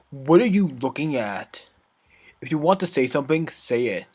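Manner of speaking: put-on sassy bratty girl, scornful. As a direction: scoff like a bratty tsundere. Natsuki voice.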